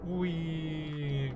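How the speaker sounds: high, playful cheer; gleeful whee. Real, not acted. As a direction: squeal with delight at the launch. Rocket launch glee.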